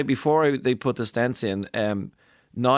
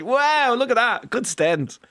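mock excited cheer; 10 semitones higher, much slower than usual. Surgical team cheering the first stent, high excited.

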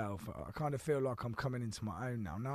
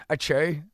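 mock sneeze; 9 dB louder than usual. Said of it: "he goes".

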